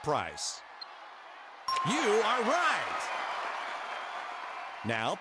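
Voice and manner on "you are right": excited. Acted. Game host celebrates correct answer.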